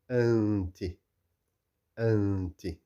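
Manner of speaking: n of "أنت" held in the nose before "ti"; ikhfa. Shown as a demonstration. Teacher models Tajweed reading for learners, ikhfa. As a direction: hum the n of "أنت" into the t. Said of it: "you can also hear the".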